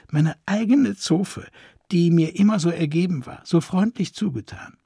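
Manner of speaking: a touch of whimpering hurt; understated whimpering grief; mild whimper. Acted. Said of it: "wimmerte es aus ihr heraus".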